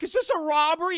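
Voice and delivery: high, loud outburst; alarmed question. Retold or imitated. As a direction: call it out as a startled guest. Alarmed guests question robber.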